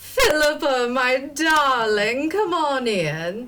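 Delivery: high, loud booming voice.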